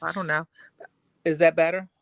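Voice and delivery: muffled mic sound; talking into a covered mic. Real, not acted. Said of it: "No, you sound muffled".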